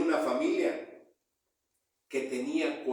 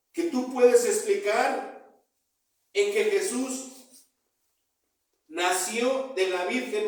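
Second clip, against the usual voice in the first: raised, emphatic sermon delivery; fervent preaching; 5 semitones higher than usual. Real, not acted. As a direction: press each phrase home to the congregation.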